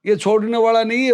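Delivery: acted emphatic denial; insistent retort. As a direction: press the point to a superior. Retold man insists to the officer.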